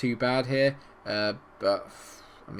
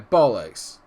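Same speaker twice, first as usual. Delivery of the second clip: ordinary talk, nothing marked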